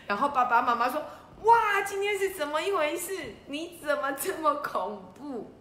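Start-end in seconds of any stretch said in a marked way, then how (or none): 1.4-5.5 mock amazement. Parents marvel at their tidy child, mock amazement. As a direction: gasp at the child's good deeds.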